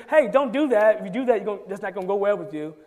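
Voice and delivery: loud scolding warning; stern warning. Retold or imitated. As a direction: warn them sharply, like a parent. Warning someone not to act.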